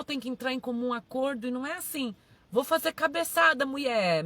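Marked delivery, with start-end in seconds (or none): 2.5-4.2 a hint of a rash husband; mock reckless husband. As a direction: lightly act out a husband pushing his wife. Voices a reckless husband to his wife.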